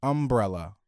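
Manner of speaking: 'Umbrella' as UM-brella; stress on first syllable. Shown as a demonstration. Demonstrating his former way, front-stressed 'Umbrella'. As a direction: punch the UM in 'Umbrella'. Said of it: "I used to say".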